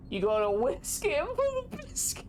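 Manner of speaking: mock coworker deadpan. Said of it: "he said with a straight face".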